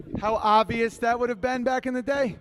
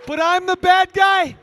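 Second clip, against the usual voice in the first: high, very loud outraged punchline; indignant yell; 8 semitones higher, 12 dB louder than usual. Acted. Comic protesting after the deaf-sign rant, indignant yell. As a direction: shout it in disbelief.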